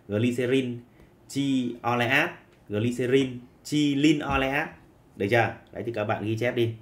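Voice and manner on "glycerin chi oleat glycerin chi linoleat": names said slowly for copying; slow dictation. Shown as a demonstration. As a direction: dictate each name slowly. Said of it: "em đọc cách thứ hai tương tự".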